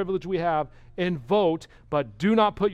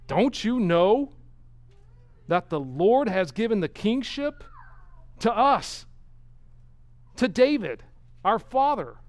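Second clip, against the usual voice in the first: bold address; 4 semitones higher, 4 dB louder than usual. Retold or imitated. King calling to the enemy army, bold and loud. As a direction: proclaim it boldly to the enemy. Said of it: "he says something that's pretty bold".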